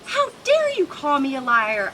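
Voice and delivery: a mock-offended lizard pushing back; understated anger; angry. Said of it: "I answer angrily".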